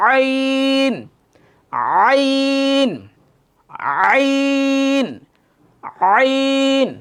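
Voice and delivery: আইন from deep in the throat; আইন with a deep, throaty ain. Shown as a demonstration. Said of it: "একটু গাঢ়, বলার চেষ্টা করেন".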